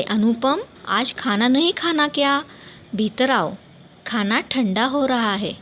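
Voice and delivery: mother calling her son in to eat; a hint of a mother calling from the kitchen. Mother calling son Anupam in for dinner, lightly voiced call. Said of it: "माँ ने आवाज़ लगाई".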